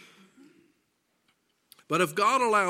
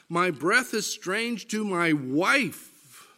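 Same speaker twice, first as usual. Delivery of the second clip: climbing higher and louder through Job's lament; impassioned scripture reading; 4 semitones higher, 4 dB louder than usual. Acted. Preacher reading Job's lament to the congregation, impassioned. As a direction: read it as Job pleading, rising in anguish.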